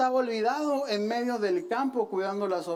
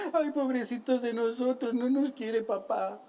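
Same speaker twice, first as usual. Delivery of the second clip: mock-weep like a sulking boy; hammed-up tearful whine; mock crying. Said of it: "llorándole a una oveja".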